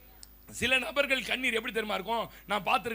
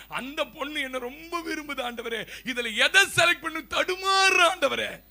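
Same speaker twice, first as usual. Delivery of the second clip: mock tearful prayer; 7 dB louder than usual. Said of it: "என்னதான் அழறான்".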